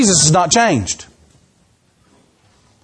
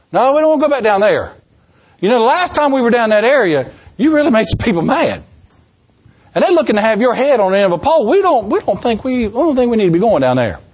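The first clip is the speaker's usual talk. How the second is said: worried disciples; 3 semitones higher than usual. Retold or imitated. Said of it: "So they say".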